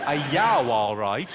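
lightly repeated Brummie greeting; Birmingham accent. Retold or imitated. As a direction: audience phrase echoed in Brummie. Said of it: "What was it?".

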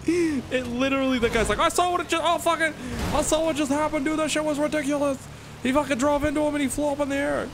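very high, squeaky talk through laughter; laughing hysterically. Real, not acted. Retelling the crash to viewers, cracking up. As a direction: struggle to talk while cracking up.

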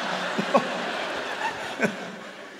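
breathy high-pitched wheeze of laughter; high wheezing laugh. Real, not acted. Comic cracking up at his own story, wheezing laugh.

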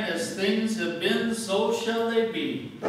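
slow, loud, world-weary pronouncement; cynics' voice. Retold or imitated. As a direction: proclaim it like a hopeless cynic. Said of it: "The cynics were looking at the world and saying".

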